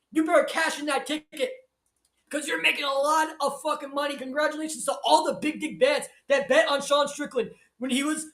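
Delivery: high-pitched, rapturous congratulations; excited hype. Real, not acted. Commentator congratulating those who bet on Strickland, excited.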